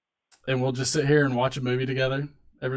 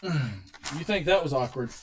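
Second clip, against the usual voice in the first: dramatic slow teaser; 4 dB quieter, slower than usual. Shown as a demonstration. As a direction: draw it out to hook the audience. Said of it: "Get ready for this story".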